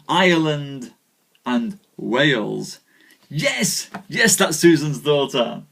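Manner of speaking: measured storyteller reading a knightly tale; story narration. Acted. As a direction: tell the legend to the live audience. Live reading of Arthurian tale.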